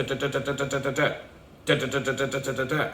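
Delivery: soft rapid da da da like faraway gunfire; distant gunshots imitation. Describing the cab driver's video, softly imitating distant gunfire. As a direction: tap out quiet far-off shots. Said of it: "they're off in the distance".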